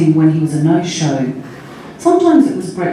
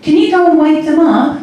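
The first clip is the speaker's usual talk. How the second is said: higher-pitched, carefully worded question; clear, child-directed speech; 10 semitones higher, 4 dB louder than usual. A narrator's reading. Sally to little Chrissy on the phone, clear and careful. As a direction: ask it clearly, as if to someone hard of hearing. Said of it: "made her words slow and clear".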